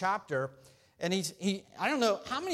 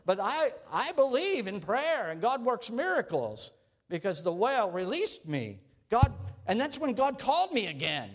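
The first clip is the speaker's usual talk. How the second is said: higher, eager bragging candidate; boastful Jonah; 5 semitones higher than usual. Acted. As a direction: brag about being called twice. Jonah boasting about miracles.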